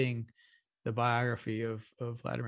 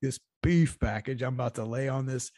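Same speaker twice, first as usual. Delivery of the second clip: louder bursts of mock defiance; mock Putin tirade; 4 dB louder than usual. Co-host playing Putin at the negotiating table, mock-defiant. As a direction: lay down a comic ultimatum. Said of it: "on the table and said".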